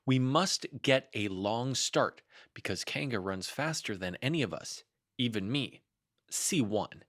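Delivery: Rabbit's hint of pompous announcement; formal reading. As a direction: read it like an official notice.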